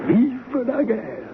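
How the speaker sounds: exultant toast. Acted. Toasting the war that united them.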